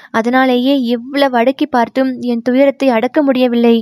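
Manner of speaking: put-on a guilt-stricken girl pouring out her confession; distressed young woman.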